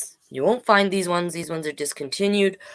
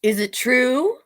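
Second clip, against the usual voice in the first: princess voice; 8 semitones higher, slower than usual. Acted. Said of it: "said Elizabeth".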